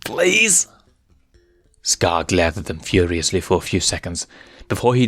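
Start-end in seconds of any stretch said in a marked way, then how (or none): 0.0-0.7 much higher, whiny please; pleading. Acted. Benzai pleads with Scar, high and whiny. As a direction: plead like a scared hyena.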